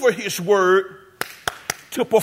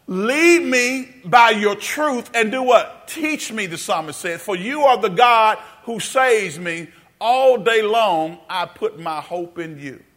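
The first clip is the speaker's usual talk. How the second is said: slow reading aloud; slower than usual. Shown as a demonstration. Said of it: "Read that one more time, out loud".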